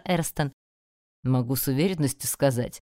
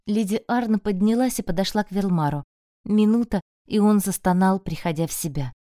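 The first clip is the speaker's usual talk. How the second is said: plain reading voice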